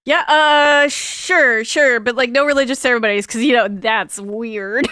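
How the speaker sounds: acted awkward agreement; flustered acceptance. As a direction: blurt a loud yes, then backpedal. Acted answer to marriage proposal.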